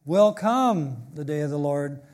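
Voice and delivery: "Will come" punched up front, the rest trailing; emphatic fronted verb. Shown as a demonstration. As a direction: lean hard on "Will come". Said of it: "you do that for emphasis".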